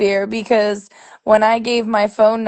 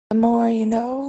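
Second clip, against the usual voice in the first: announcer voice; 3 semitones higher than usual. Pretend. Quoting the PSA slogan.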